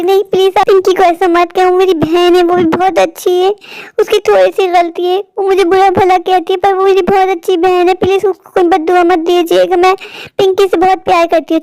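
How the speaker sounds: high, plaintive entreaty; earnest pleading. Acted. Stepsister defends Pinky to the visiting aunt, earnest pleading. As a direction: beg tenderly for your sister to be spared. Pleads on behalf of her sister.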